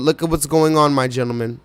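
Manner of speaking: ordinary talk, nothing marked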